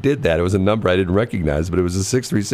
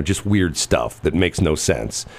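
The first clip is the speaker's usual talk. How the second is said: ordinary talk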